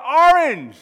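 high, very loud team answer; crowd's shout. Acted. Crowd backing the other man, loud shout. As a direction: bellow it for your side. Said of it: "They go".

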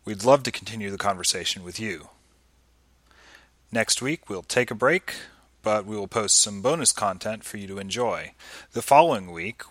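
upbeat announcer read; host reading the outro over music; podcast outro. Acted.

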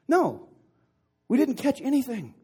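high, loud call back across water; shouted reply. Acted. Skunked fishermen answering from the boat, shouted reply. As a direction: shout the admission back to shore.

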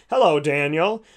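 mock big booming voice from the sky, slow and drawn out; booming God voice. Preacher mimics God calling down from the sky, booming voice. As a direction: boom it out slowly like a giant in the heavens. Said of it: "this big booming voice".

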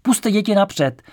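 loud, high, drawn-out call; father's shout. A narrator's reading. Father calling to the usher in a crush, shouted. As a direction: call out slowly over a crowd. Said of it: "otec křiknul v té tlačenici".

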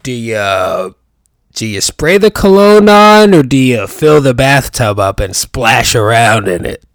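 lightly voiced sarcastic doctor ribbing a colleague; imitating Doctor Perry Cox. Quoting a Scrubs doctor mocking heavy cologne, mild sarcastic impression. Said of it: "he said".

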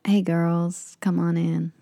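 lightly imitated American accent; easygoing attempt at an American accent. Bouncer inviting English girls in, American accent. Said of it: "how do you do American accent?".

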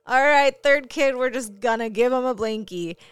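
loud, high, mock-resigned announcement; mocking the parents from the video. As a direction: announce it like tired parents giving up. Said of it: "they were like".

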